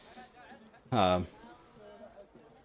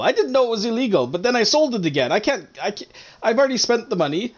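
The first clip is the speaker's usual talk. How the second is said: panicked confession; 6 semitones higher than usual. Acted. Shopkeeper rambles in panic.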